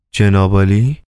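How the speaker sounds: a mild puzzled rise on جناب عالی; puzzled question. Acted. Varenukha echoes the title, mildly puzzled. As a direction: echo جناب عالی back in mild surprise. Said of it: "با نگرانی و تعجب جواب داد".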